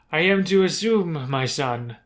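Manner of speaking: put-on cruel drow matriarch, French-accented; hammed-up French accent; awful French accent. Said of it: "forgive me for this awful French accent".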